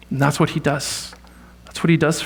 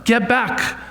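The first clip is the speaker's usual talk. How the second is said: higher-pitched imagined rebuke; hypothetical shout at the leper, voice raised in pitch; mock yell; 5 semitones higher than usual. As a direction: shoo him off like a law-bound rabbi, pitched up. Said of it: "He should have yelled at the leper".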